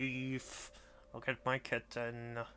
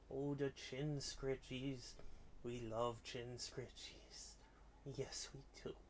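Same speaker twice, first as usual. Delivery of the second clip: slow, soft cooing; slow pet talk; 7 dB quieter than usual. Real, not acted. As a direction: croon over the chin scratches. Scratching cat's chin.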